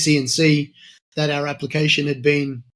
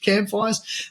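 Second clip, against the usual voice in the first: excited; 6 semitones higher, slower than usual. Retold or imitated. Excited about boys' trip.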